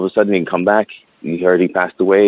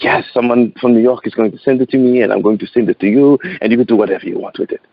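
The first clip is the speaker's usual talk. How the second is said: put-on uncle's French accent; 4 semitones higher than usual. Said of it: "He's like".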